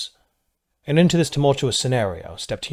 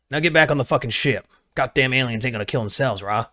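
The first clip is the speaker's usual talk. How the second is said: southern drawl impression; 2 semitones higher than usual. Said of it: "he said in a deep southern drawl".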